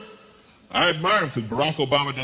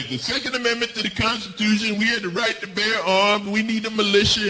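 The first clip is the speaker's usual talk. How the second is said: mock NRA; 4 semitones higher than usual. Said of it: "the same argument, right, from the N R A".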